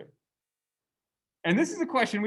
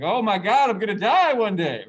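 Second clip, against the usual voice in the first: louder, higher imitated freak-out; loud mock alarm at death; mock panic; 3 semitones higher, 6 dB louder than usual. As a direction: ham up a panicked young prince. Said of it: "He's like".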